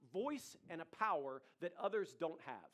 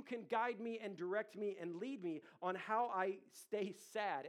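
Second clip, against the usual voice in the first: prayer; 3 semitones higher than usual. Shown as a demonstration. Modeling a prayer to God.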